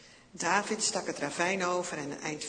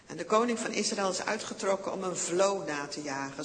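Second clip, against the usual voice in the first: ordinary delivery, nothing marked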